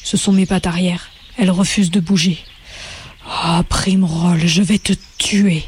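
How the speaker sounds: a lightly voiced wounded rabbit, low; low pained threat. Bigwig cursing Primroll from the snare, low and pained. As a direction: drag out the name, then growl the threat.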